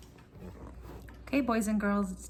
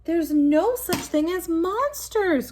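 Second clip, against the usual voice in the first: high, louder, slow insistent protest; crying out; 7 semitones higher, 10 dB louder, slower than usual. Acted. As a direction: cry it out to calm his own fear. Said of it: "cried Bear".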